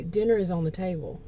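said evenly and calmly. Acted. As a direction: keep it calm, no edge at all. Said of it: "You say it very calmly".

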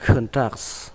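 "contracts" said clearly as a model; English word demo. Shown as a demonstration. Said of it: "Từ này các bạn đọc là".

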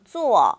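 坐 said as a clean falling zuò; 坐 spoken slowly for students to copy; modeled zuò. Shown as a demonstration. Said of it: "다시 한번".

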